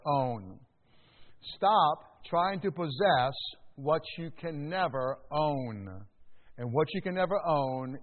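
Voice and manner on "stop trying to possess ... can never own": slow, weighty, every word laid down; slow emphatic repeat. Shown as a demonstration. Preacher repeating his point slowly so the church takes notes. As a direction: let it sink in, slowly. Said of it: "repeated for emphasis".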